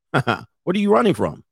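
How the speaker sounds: light, teasing question after a chuckle; playful, not interrogating; joking. Shown as a demonstration. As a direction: toss it out as a joke. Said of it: "just say it as a joke".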